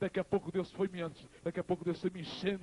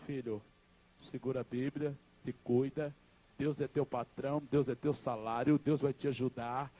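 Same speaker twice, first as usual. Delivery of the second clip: gentle farewell counsel; 4 semitones lower than usual. Retold or imitated. Dying mother's farewell counsel.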